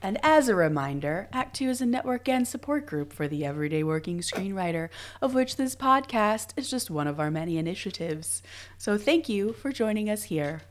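just woke up, rough raspy voice; morning voice. Real, not acted. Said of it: "morning voice".

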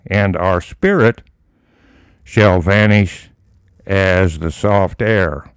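slow, solemn Bible reading; scripture reading. Acted. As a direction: read each phrase slowly, like holy text. Reads scripture aloud in sermon.

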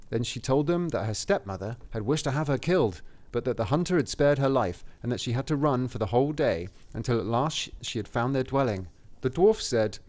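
measured fairy-tale reading; story narration. A narrator's reading. Reading the cottage description to a co-host, story narration. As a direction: read it aloud as a storybook.

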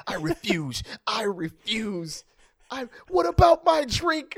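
put-on high whiny drunk, slow then yelling; stubborn drunk guy. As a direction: whine like a drunk refusing to leave. Imitating a drunk guy refusing.

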